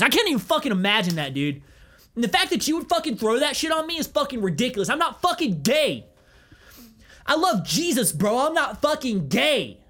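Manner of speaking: hammed-up defensive outburst; over-the-top defensive. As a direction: deny it like a flustered rock star. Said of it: "just get dumb defensive".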